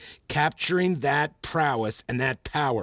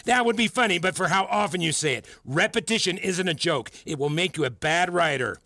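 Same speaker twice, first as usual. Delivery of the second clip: higher-pitched, pointed reprimand; scolding; 5 semitones higher than usual. Acted. Teacher warning student about bad writing, scolding. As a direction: lecture a student sternly.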